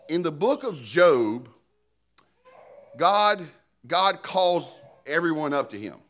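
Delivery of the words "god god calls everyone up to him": ordinary delivery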